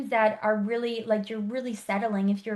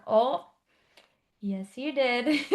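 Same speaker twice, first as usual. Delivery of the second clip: knowing teasing reply; slower than usual. Retold or imitated. Coach answers client, teasing.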